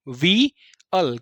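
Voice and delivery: जोवियल slowly pieced as jo, VEE, al; built from parts. Shown as a demonstration. Teacher building the word for students, जोवियल as jo-vee-al in slow parts. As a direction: draw out जोवियल part by part with a long "vee". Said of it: "वी आई नहीं पढ़ना है".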